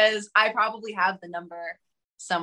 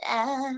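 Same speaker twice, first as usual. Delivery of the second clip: a singer's vocal tic; 3 semitones higher, 4 dB quieter than usual. Shown as a demonstration. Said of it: "that thing".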